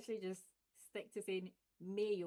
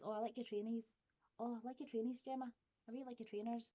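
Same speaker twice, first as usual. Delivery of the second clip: a touch higher Glasgow compliment; Glaswegian compliment; 3 semitones higher, faster than usual. Shown as a demonstration. Complimenting Gemma's shoes, in Glaswegian. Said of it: "we'd probably call it trainers or trainees".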